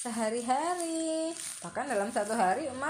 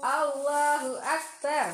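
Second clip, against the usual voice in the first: slow recitation; 4 semitones higher, 6 dB louder, slower than usual. Shown as a demonstration. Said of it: "Kita ucapkan".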